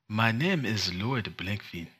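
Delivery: a light, slow mock Wakandan accent. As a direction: slowly try the name in a Wakandan accent. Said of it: "let's try both in Wakandan".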